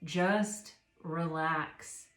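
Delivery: slow, soothing just relax; a slow calming mantra; calm soothing quote. Retold or imitated. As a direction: ease the listener down slowly. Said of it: "like Michael Singer will say".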